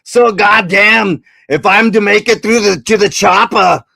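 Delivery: Arnold Schwarzenegger impression. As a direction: push through it like a hero under fire. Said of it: "Arnold Schwarzenegger".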